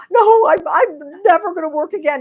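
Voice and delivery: high, loud mock-wail of her younger self; whiny self. Retelling her protest to husband, mock-whiny and high. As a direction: whine it like a sulky child. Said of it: "And I was like".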